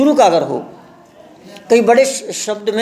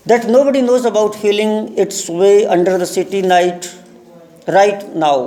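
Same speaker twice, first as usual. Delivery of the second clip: very slow, deliberate English reading; lesson read-aloud; much slower than usual. Shown as a demonstration. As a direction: read it out word by word for learners. Reads the lesson aloud slowly. (धीरे-धीरे, शब्द-दर-शब्द पाठ पढ़ना)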